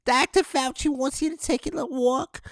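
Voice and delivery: lightly mocking the doctor's advice; mock Fauci quote. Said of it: "as they would say".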